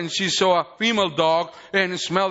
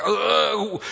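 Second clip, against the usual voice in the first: mock stretched southern-sounding groan; imitated drawn-out accent sound; 3 semitones higher than usual. Man mocking how an accent stretches words, drawn-out noise. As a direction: draw out a wordless mimicked drawl. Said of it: "you make it larger".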